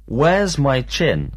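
slow, clear classroom question; slow teacher question. Shown as a demonstration. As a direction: ask it slowly for the class. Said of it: "teacher drilling questions".

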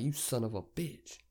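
slow, drawn-out muted curse; acted grudging disbelief; mock exasperation. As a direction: curse them slowly under your breath. Acted reaction to unwanted plate.

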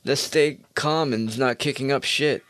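high, sarcastic gushing follower voice; mock fan voice. Podcaster mocking imagined nice followers, high sarcastic gush. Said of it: "people would be like".

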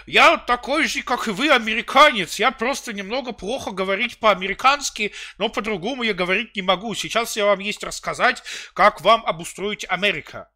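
high, loud fake American accent; mock an American speaking broken Russian; English accent Russian. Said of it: "Новые видео Нестерова, это вот".

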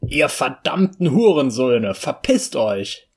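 laut beschimpfen, verpisst langsam gedehnt; wütender Schrei. Acted. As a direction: jemanden wütend wegjagen. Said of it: "wütender Rainer beschimpft Leute". (Rainer brüllt die Leute wütend an)

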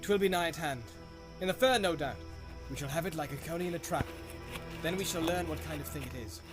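low and furtive. Acted. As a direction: hunters murmuring close by. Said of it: "speaking low and furtively".

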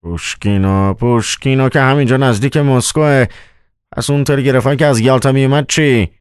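high, puzzled challenge in character; incredulous questioning. A narrator's reading. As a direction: echo it in disbelief, voice rising high. Startled manager questions his colleague's tale.

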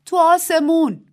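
high, loud, slow anguished wail. A narrator's reading. Little Pig's wife answering grandmother, slow high wail. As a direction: cry it out in despair. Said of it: "نالید".

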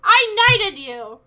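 put-on drunken whine. Drunk character whining.

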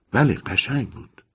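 put-on chatty old landlady, a bit pleased. Landlady ends the gossip.

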